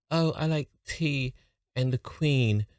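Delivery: slow mock posh English; posh British accent. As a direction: drawl it like a toff. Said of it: "When they say Brits".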